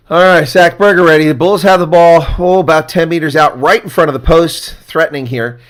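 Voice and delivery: loud, high, rising commentary; excited play-by-play. Real, not acted. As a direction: call it as the attack builds. Play-by-play near the try line.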